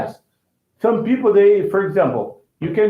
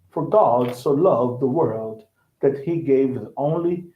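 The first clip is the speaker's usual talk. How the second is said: clipped British reading; 5 semitones lower than usual. Shown as a demonstration. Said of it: "they cut the words".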